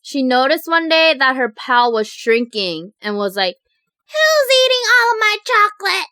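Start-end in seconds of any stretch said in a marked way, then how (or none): 4.1-6.1 high-pitched, indignant grandma voice; grandma impression. Grandma noticing her shrinking chocolate stash, indignant high impression. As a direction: put on a loud-ish, high grandma demanding answers. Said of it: "good impression of her".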